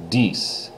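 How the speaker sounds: "dies" said like "cease" with a d; French "dies" with long ee and soft s ending; French dix. Shown as a demonstration. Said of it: "Cease and dies".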